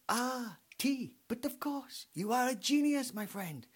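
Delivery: put-on high Belgian-French accent; a fussy Belgian detective with sudden insight; Poirot. Poirot praising Hastings, high Belgian accent. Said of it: "And then Poirot goes".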